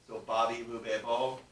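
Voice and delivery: ba, bi, bu, be, bo with closed lips; voiced labial syllables. Shown as a demonstration. Teacher demonstrating lip sounds to the class. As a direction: pop the lips for ba, bi, bu, be, bo. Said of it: "turning it into a labial sound".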